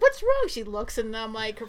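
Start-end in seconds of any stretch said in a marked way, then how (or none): 0.0-0.5 high, loud alarmed mom; very high-pitched startled question; mock alarm. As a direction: imitate a mother suddenly panicking. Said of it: "freaking out".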